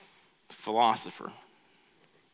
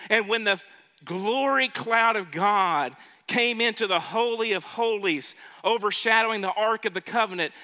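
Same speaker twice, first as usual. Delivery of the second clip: higher, louder preacher's proclamation; emphatic preaching; 4 semitones higher, 4 dB louder than usual. Acted. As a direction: proclaim it to the congregation, pitched up. Preaches at raised pitch.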